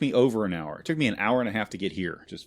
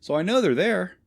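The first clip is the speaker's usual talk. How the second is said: exasperated rant; 9 semitones higher than usual. Real, not acted. Exasperated retelling of door knock.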